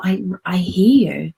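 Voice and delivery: whispered reassurance; soft whisper. Shown as a demonstration. Adult self whispers comfort to the inner little girl. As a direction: breathe it gently to a child. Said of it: "adult you says".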